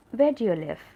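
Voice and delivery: loud question, WHERE punched hard; questioning emphasis. Shown as a demonstration. Teacher showing how interrogatives sound, loud questioning emphasis. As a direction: ask it emphatically from WHERE onward. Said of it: "you should also sound like you're asking".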